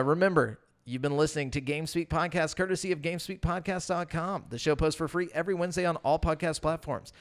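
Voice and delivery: steady podcast outro read; scripted sign-off. Real, not acted. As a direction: read out the closing plugs like a host. Reads the show's sign-off.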